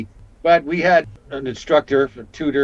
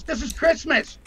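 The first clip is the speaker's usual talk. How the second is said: higher, teasing flirty quote; a light playful imitation of Lorraine; mock coy flirt; imitating Lorraine; 13 semitones higher than usual. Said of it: "She goes".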